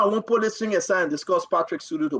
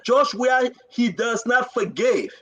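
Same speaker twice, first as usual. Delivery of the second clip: higher, slow, half-cried plea; retold pleading cry; 4 semitones higher, slower than usual. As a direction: imitate a man pleading near tears, slowly. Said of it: "He began to cry".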